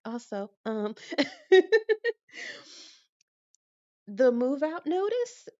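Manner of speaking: put-on high, slow, cutesy anime-girl squeak with a giggle; teenage anime girl voice. Asking the office lady about the notice in a cutesy anime voice. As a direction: play the shy anime fangirl asking sweetly. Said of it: "I started doing the thing".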